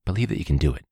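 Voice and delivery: a hint of Bob Ross, soothing; Bob Ross impression. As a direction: coax them kindly like a calm painter. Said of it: "That's actually a very good quote".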